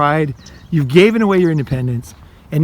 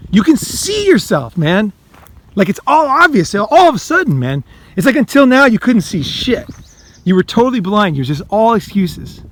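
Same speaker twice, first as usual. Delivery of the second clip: excited; 4 semitones higher than usual. Real, not acted. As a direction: let the realisation burst out, pitch climbing. Moment of clarity, rising excitement.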